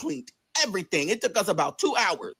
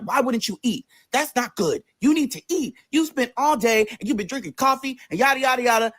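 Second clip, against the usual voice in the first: put-on raised, fussing boyfriend scolding; imitated nagging; 5 semitones higher than usual. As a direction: mimic him lecturing, pitched up.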